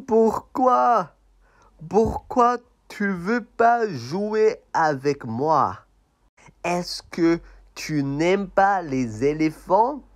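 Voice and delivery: high, loud why-not protest; high offended puppet. Acted. Puppet protests to the elephant, high and loud. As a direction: sound hurt and pushy.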